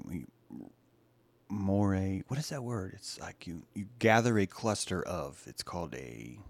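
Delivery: usual speaking voice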